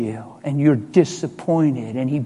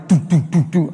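imitated knocking.

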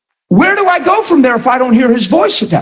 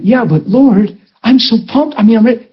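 eager protest; 2 semitones higher than usual. Retold or imitated. Preacher arguing with the Lord about his fast, eager protest. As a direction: protest like a keen son, lightly acted.

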